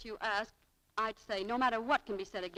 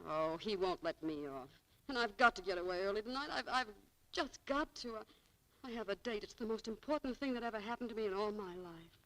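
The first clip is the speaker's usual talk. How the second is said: upset; 5 dB quieter than usual. Acted. Clerk upset to friend.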